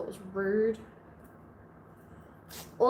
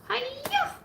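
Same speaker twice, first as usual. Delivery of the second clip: high karate cry; karate shout. Pretend. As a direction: yell hiya like a kung fu kick. Playful martial arts shout.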